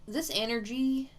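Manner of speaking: "This energy" with an accidental faint foreign lilt; unplanned slight accent. Real, not acted. Psychic startled by her own accent on "This energy". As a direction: let "This energy" slip into a light, unnamed accent. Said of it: "why am I speaking in an accent?".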